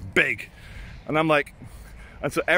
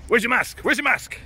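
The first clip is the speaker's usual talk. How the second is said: high-pitched imitation of an Eastern European guard; mock the guard in an Eastern European accent; high, demanding Eastern European accent; 9 semitones higher than usual. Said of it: "Eastern European".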